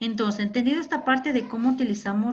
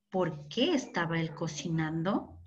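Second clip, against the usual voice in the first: ordinary talk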